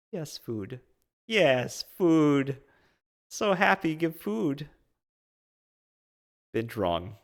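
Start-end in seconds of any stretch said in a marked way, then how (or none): 0.1-4.7 high-pitched happy animal voice; short, high exclamations with falling tune; eager otters. Acted. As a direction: speak as a thrilled, hungry otter. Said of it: "They all look at you like".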